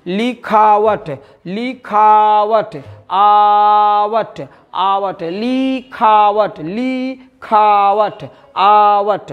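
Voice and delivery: very slow, drawn out, stretching लिखावट to split off आवट; teacher slowly pulls the word apart into its suffix; slow syllable drill. Shown as a demonstration. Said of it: "लिखावट से शब्द में प्रत्यय कौन है". (धीरे-धीरे खींचकर अक्षर अलग करते हुए)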